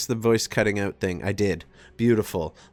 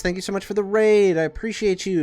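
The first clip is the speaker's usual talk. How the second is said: excited; 10 semitones higher, 6 dB louder than usual. Real, not acted. Thanking a raid on stream.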